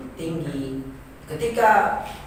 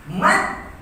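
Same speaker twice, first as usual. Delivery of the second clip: MAT lifted higher on the long vowel; high intonation; 5 semitones higher than usual. Shown as a demonstration. Teacher showing where long vowels rise, high-pitched "Mat". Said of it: "di situ tinggi intonasinya".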